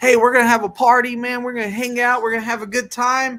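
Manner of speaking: put-on, high, loud, overly easygoing friendliness. Acting out starting off too friendly with new staff: acting the Mister Nice Guy. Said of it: "you're Mister Nice Guy and you're like".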